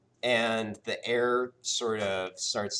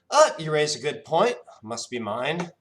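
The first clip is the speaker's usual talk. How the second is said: higher, louder genie voice; genie host; 7 semitones higher, 9 dB louder than usual. Acted. Genie agreeing the boy is his, high and cheerful. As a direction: concede cheerfully.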